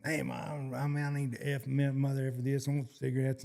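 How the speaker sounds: lightly mocked foul-mouthed demand; cussing rant. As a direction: run through censored swearing as a mimicked rant. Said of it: "he's just cussing".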